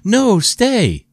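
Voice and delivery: put-on high, small child voice; toddler voice. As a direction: voice a whiny little toddler.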